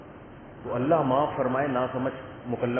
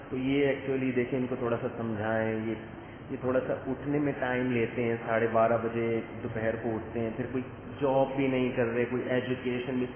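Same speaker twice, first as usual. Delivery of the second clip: softer, hesitant complaint about his son; timid father complaining; 4 semitones lower, 5 dB quieter than usual. Retold or imitated. Father nervously complaining to the mufti, softly and timidly. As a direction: complain gingerly so the son won't get angry. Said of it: "باپ بہت دھیمے دھیمے بات کر رہا ہوتا ہے".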